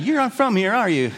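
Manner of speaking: high-pitched start, dropping on the question; lightly voiced Southern local. Southern local to a visiting tourist, lightly voiced. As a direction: lightly play a local spotting an outsider. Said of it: "talking in their southern twang".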